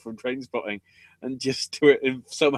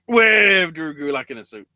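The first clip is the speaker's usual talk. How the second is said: excited; 5 semitones higher, 6 dB louder than usual. Real, not acted. Excited announcing of suit.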